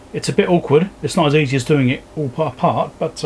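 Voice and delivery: normal talking voice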